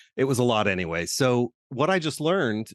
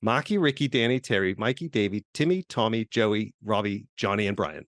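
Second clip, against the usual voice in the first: put-on light Boston accent; a hint of Boston accent, rattled off. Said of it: "my worst Boston accent right now".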